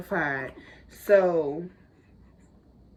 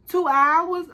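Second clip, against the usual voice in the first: high, loud outraged squeal; outraged disbelief; 10 semitones higher, 5 dB louder than usual. Retold or imitated. Mother in labor shrieking at nurses in outrage.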